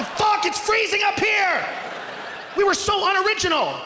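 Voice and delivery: high, slow shout, freezing and dismayed; high shouted complaint. Retold or imitated. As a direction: yell it from the freezing mountaintop. Time traveler atop a shit mountain.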